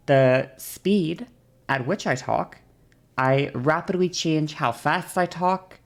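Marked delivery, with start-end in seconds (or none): 3.2-5.8 slow, with drawn-out gaps; long pauses. Shown as a demonstration. Teacher demonstrating own changing speed, slow with pauses. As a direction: stretch it out and pause mid-sentence. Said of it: "take long pauses when I'm speaking".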